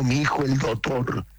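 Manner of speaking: "doctor" said as "dotor", without the C; dropped C. Shown as a demonstration. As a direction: drop the C in "doctor". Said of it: "sin C".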